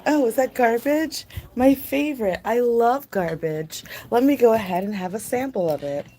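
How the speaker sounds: mock dog voice drooling over trash; dog's voice. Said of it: "that's my impression of a dog".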